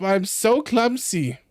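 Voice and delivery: lightly voiced old man, slow; a hint of a creaky old man. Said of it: "with an old man voice".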